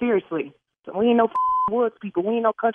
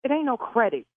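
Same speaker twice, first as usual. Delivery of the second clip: angry refusal; 4 semitones higher than usual. Real, not acted. Caller refusing the credit.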